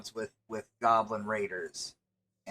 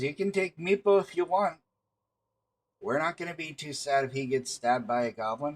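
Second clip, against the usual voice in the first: mock dismissive kobold; 4 semitones higher, faster than usual. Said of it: "He says".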